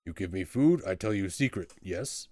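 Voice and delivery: blunt troll striking a bargain; eager, simple-minded troll. Acted. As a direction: offer a deal in primitive troll speech. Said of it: "Troll, I mean".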